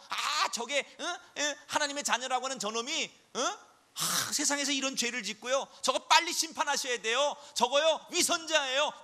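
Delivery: hammed-up tattling Satan voice; Satan accusing. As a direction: snitch on the believer to God, whining. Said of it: "그러면서 하나님 앞에 일러 바치는 게 사탄".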